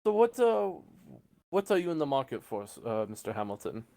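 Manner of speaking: salesman starting high, settling down; salesman in character. Acted. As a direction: get back to business with the customer.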